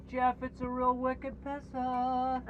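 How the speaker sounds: slow, high Boston slang; Boston accent. Pretend.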